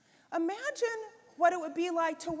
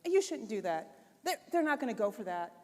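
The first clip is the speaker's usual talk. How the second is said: quick, lower, nagging little voice; nagging inner critic; 5 semitones lower, faster than usual. Retold or imitated. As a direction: rattle it off like a pesky critic on your shoulder. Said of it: "little nagging voice over your head that just chirps".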